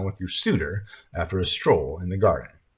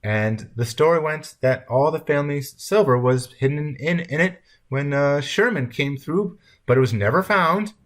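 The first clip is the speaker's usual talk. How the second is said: put-on high old lady's enticing tale, emphatic; crafty grandmother storytelling; 7 semitones higher, 4 dB louder than usual. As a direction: spin the tale in a raised, eager voice. Grandmother spins her tale.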